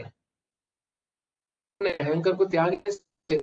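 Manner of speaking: slowed right down, each word weighed; slow emphatic repeat. Shown as a demonstration. Teacher repeats his question to students, slow and deliberate. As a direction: let the question sink in slowly.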